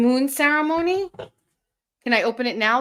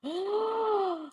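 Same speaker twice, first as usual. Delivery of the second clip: delighted gasp; 9 semitones higher, 7 dB quieter than usual. Real, not acted. Sees the glowing ornament.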